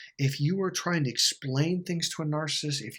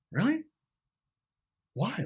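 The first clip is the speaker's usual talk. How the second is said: high-pitched, imitated disbelief; shocked; 8 semitones higher than usual. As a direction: mimic him taken aback, pitch jumping up. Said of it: "he was just shocked".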